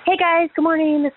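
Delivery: out of breath from the bike trainer; heavy breathing. Real, not acted. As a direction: breathe hard between words. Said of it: "Sorry I'm breathing hard".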